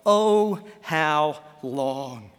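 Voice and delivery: drawn-out lament, sinking at the end; weary plea. Acted. Preacher voicing a tired heart to the Lord, weary plea. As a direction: plead wearily, stretching the last words.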